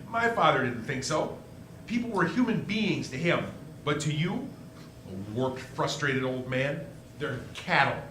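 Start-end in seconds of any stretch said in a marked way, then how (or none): 5.1-8.0 contempt. Acted. Insulting Potter at the meeting.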